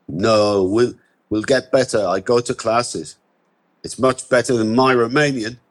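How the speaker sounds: put-on hesitant broken English with an Eastern European accent; Romanian accent. Immigrant answering a stranger's question in a Romanian accent. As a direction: Romanian accent, searching for words.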